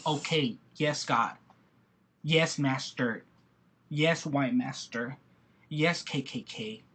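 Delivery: slow, low and soft, bowing and scraping; mock submissive. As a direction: play the obedient servant with bitter sarcasm. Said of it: "by saying".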